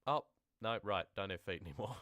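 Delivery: a touch of surprise in a chirpy ghost; mock realisation, lightly voiced. Ghost remembering it has no feet, mock surprise.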